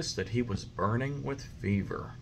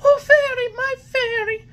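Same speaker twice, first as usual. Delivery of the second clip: high, loud desperate wail; crying out; 9 dB louder than usual. A narrator's reading. Puppet crying out to the fairy in panic. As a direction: beg in panic. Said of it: "the marionette cried out".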